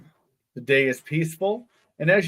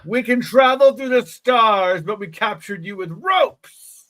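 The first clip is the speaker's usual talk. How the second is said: alien creature voice; 5 semitones higher, 4 dB louder than usual. Acted. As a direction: speak like a proud little alien. Alien creature speaking in story.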